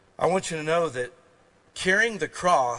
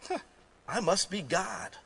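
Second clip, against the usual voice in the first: smug cat; 3 semitones higher, 4 dB quieter than usual. Retold or imitated. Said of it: "And the cat says".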